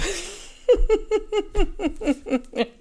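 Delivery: high delighted laugh; high burst of laughter. Real, not acted. Reader laughing as the target just walks away. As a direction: let out a big happy laugh. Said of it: "And then you're just going off".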